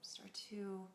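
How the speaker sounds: soft, unhurried meditation voice; guided meditation. Acted. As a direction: guide them gently through the breath, leaving long pauses.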